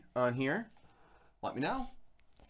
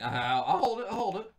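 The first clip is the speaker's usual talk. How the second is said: mock polite; 8 semitones higher than usual. Pretending it's fine to the cat.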